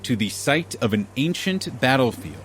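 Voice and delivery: steady storytelling narration with dramatic pauses; game master scene setting. Acted. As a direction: set the scene like a dungeon master. DM scene-setting recap over music.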